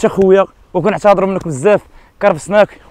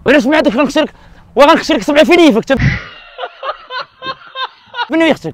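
mock angry threats; 4 semitones higher than usual. Pranker threatening the stranger over his sister, mock anger. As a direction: bluster like a madman threatening.

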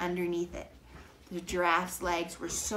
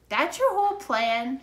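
put-on loud high skeptical girl; 7 semitones higher, 9 dB louder than usual. A narrator's reading. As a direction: question the plan, unimpressed. Annie mocks Jack's plan.

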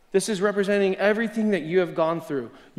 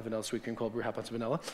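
dictating the order; 6 semitones lower, 14 dB quieter, much faster than usual. Shown as a demonstration. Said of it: "write that down".

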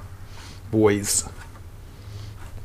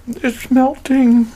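high, very slow, louder marvelling; thrilled, drawn out; 12 semitones higher, 4 dB louder, much slower than usual. Real, not acted. Cook marvelling at the brisket for viewers, slow and thrilled. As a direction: stretch it out in awe. Showing tender brisket, delighted.

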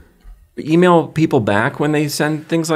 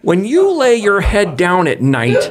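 dramatic voice; 4 semitones higher than usual. Pretend. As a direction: read it like a heartfelt plea. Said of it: "Wes is gonna read it for us in a dramatic voice".

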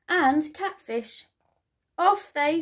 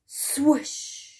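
swoosh; 3 semitones higher than usual. A narrator's reading. Story sound effect of swimming away.

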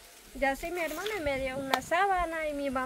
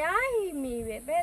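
a mild mock yell of alarm, pitched up on ay; retold cry out; 2 semitones higher, slower than usual. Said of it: "Yo grité". (grito asustado imitado, leve)

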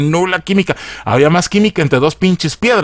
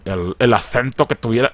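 Spanish accent; 3 semitones lower, 4 dB quieter than usual. Shown as a demonstration. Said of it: "Y yo como español, tío, no".

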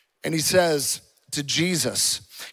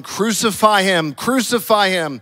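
raised, drawn-out chant of a mob; mock crowd shouting; 5 semitones higher, 7 dB louder than usual. Priests and guards demanding an execution, acted shouting. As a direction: call it out slowly, louder and higher. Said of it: "began shouting".

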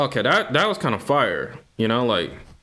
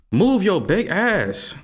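slow mock demand; 8 semitones higher, much slower than usual. Shoving past a character.

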